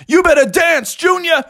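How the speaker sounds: high, taunting character voice; playful threat. A narrator's reading. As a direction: taunt Junior as you take aim. Bubby threatens Junior playfully.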